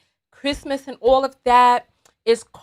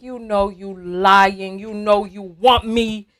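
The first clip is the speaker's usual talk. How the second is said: slow, knowing seductive tease; sensual coaxing; 3 semitones lower, slower than usual. Acted. Ice cream answering the dieter's refusal, slow sensual coaxing. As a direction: coax slowly, sure of being wanted. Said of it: "real soft and just very sensual".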